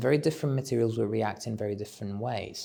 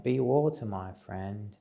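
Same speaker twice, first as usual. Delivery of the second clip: lightly voiced Bruce Lee, barely off own voice; Bruce Lee impression. Quoting Bruce Lee to the audience, lightly voiced impression. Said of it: "That's my impression of Bruce Lee".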